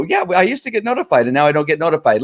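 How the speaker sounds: sing-song mock of a complaint; mocking whiny echo. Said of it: "I go".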